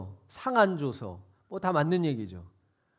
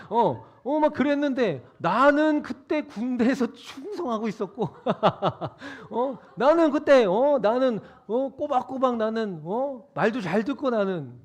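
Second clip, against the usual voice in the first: louder, laughing through the boast; elder son boasting with laughter; laughing complaint; 3 semitones higher, 5 dB louder than usual. Retold or imitated. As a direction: brag about loyalty while chuckling.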